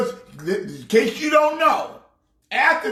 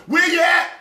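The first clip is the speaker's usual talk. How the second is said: calling out. Real, not acted. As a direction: call him out like he's hiding. Calling someone out.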